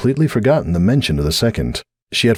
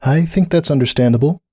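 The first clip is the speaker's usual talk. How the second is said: mildly gentle, pitched up; gently; 8 semitones higher than usual. A narrator's reading. Starlight reassuring Cupcake, gently. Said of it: "Starlight said gently".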